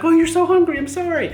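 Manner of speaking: put-on high, loud cooing at a baby; exaggerated high-pitched sympathy for a baby; retold baby talk. Soothing the wailing baby, retold.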